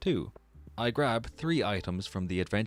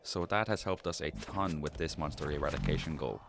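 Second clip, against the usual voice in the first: losing voice. Real, not acted. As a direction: talk gently with a tired, failing voice. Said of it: "I was beginning to lose my voice at this point".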